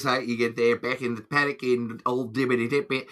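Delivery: lightly done Australian accent demo; a hint of Australian country talk. Shown as a demonstration. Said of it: "the Australian accent's like this".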